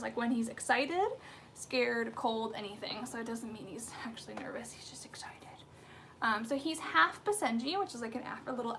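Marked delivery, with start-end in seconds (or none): 3.1-5.5 soft, breathy whisper. Real, not acted. Owner whispering while holding her shivering puppy. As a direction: hush so the dog stays calm.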